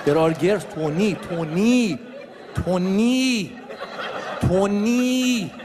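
hushing him to call him Tony, lightly voiced; a touch of a mock hush, insisting on a new name; hushed correction. Friend hushing the speaker because girls are around, mock urgent. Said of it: "friend hushing, girls around".

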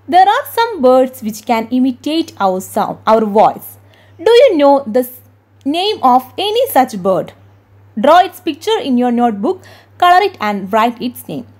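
very slow, deliberate English read-aloud; textbook reading. Acted. Teacher reading the English textbook aloud to her class, slowly. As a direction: read the book's question out word by word.

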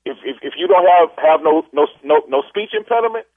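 rising, stuttering challenge; stammered warning. Real, not acted. Customer warns the caller about faking a speech impediment, stammering angrily. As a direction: stumble through a threat, pitch climbing toward the end.

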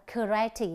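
"karate" stressed on the middle syllable; second-syllable stress. Shown as a demonstration. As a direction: lean on the RA in "karate". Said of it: "Chúng ta nhấn âm thứ hai". (nhấn âm thứ hai của "karate")

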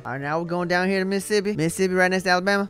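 slipping into a quick Southern twang; casual, hurried Southern accent; lightly put-on Southern accent. Real, not acted. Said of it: "I don't know why I keep talking that way".

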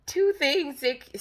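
slow, cracked sick voice; scratchy voice. Real, not acted. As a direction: croak it out with a sore throat. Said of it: "sorry, I sound so weird".

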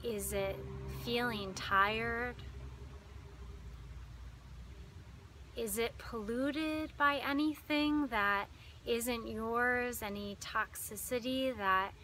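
calm meditation guide with long pauses; unhurried, lingering phrases, leading listeners inward; guided meditation. Acted.

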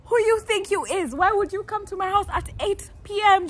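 high, loud, full of attitude; sassy outrage. Retold or imitated. Scolding the boy who came at night, high and loud. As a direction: demand it with sass. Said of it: "I was like".

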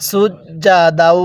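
সুজ্জাদাউ with a hard doubled জ, slow; firm জ. Shown as a demonstration. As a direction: press the জ hard and hold it. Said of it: "জিমটা আমরা শক্ত করে উচ্চারণ করব".

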